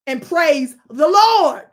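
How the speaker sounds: slow, loud and high praise cry; drawn-out preacher call. Acted. Streamer urges chat to praise, slow and loud. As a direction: stretch it out like a pastor.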